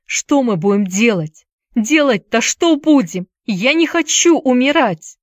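building to a high, panicky wail; distressed wailing. A narrator's reading. Boy surrounded by wolves, distressed wailing. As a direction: lament rising into high pitch. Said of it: "горестно запричитал Уилл".

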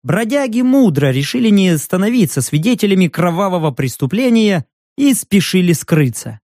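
usual speaking voice

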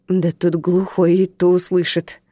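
чуть изменённым голосом, ворча; недовольно пробурчи; ворчливо. Acted. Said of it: "проворчал нарушитель". (нарушитель ворчит на смотрительницу)

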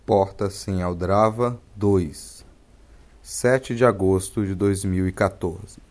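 low, measured reading voice; essay reading. Acted. Host reads an old blog text aloud, measured reading voice.

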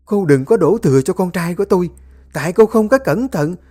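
high, loud, fast harsh scolding; shrill-voiced rebuke of the family squabble; scolding mother-in-law. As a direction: tear into them like a furious mother-in-law.

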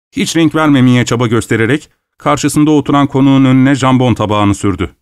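usual speaking voice

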